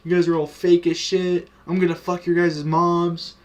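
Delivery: shit-talking. Retold or imitated. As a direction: imitate a kid mouthing off online. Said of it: "I started shit-talking some more".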